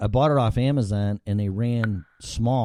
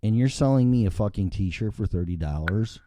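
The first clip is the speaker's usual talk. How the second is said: angry customer rant; 3 semitones higher than usual. Pretend. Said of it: "Sincerely, an asshole customer".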